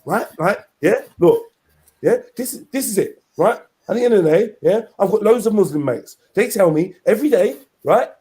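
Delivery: lightly voiced rambling street talker; Tommy Robinson impression. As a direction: keep asking right? like Tommy. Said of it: "that's my Tommy impression".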